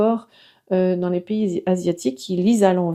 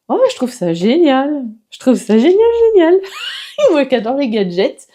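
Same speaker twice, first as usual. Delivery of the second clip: excited raving; 5 semitones higher, 5 dB louder than usual. Real, not acted. Raving about the gadget.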